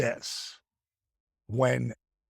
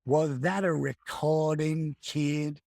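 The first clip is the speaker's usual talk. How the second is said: Dusty voice; slower than usual. Retold or imitated. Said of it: "then I heard that voice".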